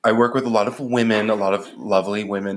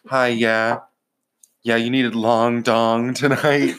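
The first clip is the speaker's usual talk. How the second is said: slow, lightly put-on phone receptionist voice; lightly hammed-up booking clerk; mock receptionist; slower than usual. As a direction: play the bored escort secretary taking a call. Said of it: "I'm the secretary at the escort service".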